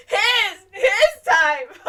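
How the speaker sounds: loud, high-pitched outraged scream. Retold or imitated. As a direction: scream it like an indignant audience. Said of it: "we're all screaming".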